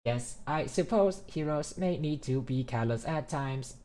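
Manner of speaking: formal AI speech, slightly stiff; measured, stiff robot orator. Acted. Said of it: "Tesla would talk that just for shits and giggles".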